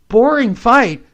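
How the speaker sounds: ordinary talk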